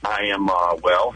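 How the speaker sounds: hesitant, halting answer; tentative. Real, not acted. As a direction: answer tentatively, pausing before the last word. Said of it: "Why do you say that so tentatively?".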